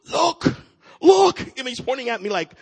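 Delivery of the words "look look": very high, loud imitation of an overjoyed kid; excited little kid. Imitating a man thrilled by unexpected groceries, excited squeal. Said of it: "like a little kid on Christmas".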